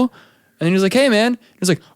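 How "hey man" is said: put-on Irish accent. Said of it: "he does it in his, like, accent".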